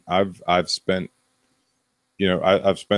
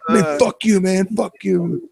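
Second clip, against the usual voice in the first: mock angry retort; 13 semitones higher than usual. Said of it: "He's like".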